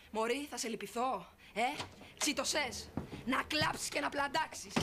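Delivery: sneering slow condolence; mock pity. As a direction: savour every word of fake sympathy. Mock pity at humiliated friend.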